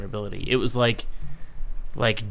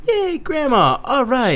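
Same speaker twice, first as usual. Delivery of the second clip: excited cheer; 13 semitones higher, 5 dB louder, slower than usual. Pretend. Mock cheer.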